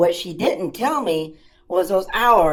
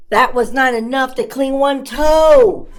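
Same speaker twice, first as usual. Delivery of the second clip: exasperated shout; 4 semitones higher, 4 dB louder than usual. Acted. Exasperated diaper disaster.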